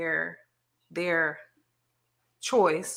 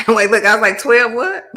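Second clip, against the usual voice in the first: laughing; 4 semitones higher, 10 dB louder than usual. Real, not acted. Laughing disbelief at list.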